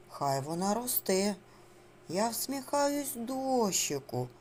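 put-on slow, measured verse for little children; children's verse recital. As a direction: recite a greeting rhyme, unhurried. (повільно декламує дитячий віршик)

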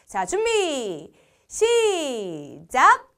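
long stretched ready, go; drawn-out countdown call. Real, not acted. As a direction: stretch each word like a starting call. Presenter starting a game.

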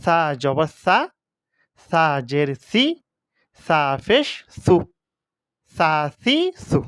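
"সা", "সি", "সু" with a soft tongue-tip s; careful teacher's model of soft "সা সি সু"; soft tongue-tip consonant. Shown as a demonstration. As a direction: demonstrate "সা সি সু", each consonant made gently at the tip of the tongue. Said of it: "এভাবে উচ্চারণ হবে".

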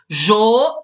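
"Jo" as a syllable on its own; separated syllable. Shown as a demonstration. Teacher explaining the split to pupils, "Jo" sounded out alone. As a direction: cut "Jo" off from the rest of the word. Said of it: "o A é separado".

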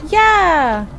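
loud high cheer; triumphant yes. Real, not acted. Player cheering when she finds the right way, loud. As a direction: cheer at the find.

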